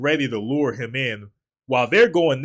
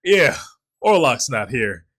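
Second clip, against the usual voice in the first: mock nonchalant; 4 dB louder than usual. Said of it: "William Dafoe just nonchalant".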